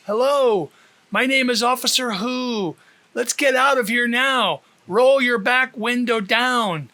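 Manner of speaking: calling out. Acted. Officer calling through loudspeaker.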